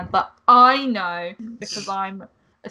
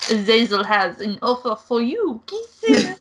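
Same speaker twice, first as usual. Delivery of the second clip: camp kisses; 3 semitones higher than usual. Acted. Angel teases the player with a camp sign-off.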